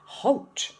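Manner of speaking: sudden bellowed halt. A narrator's reading. Highway rat bellowing at the ants to stop. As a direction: bark it out to stop them dead. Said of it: "bellowed a deafening".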